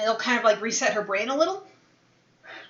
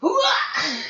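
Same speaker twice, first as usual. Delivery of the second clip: loud gung-ho soldier; 8 semitones higher, 4 dB louder than usual. Acted. Soldier battle cry.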